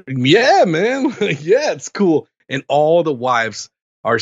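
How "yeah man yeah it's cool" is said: easygoing yes. Retold or imitated. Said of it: "And they're like".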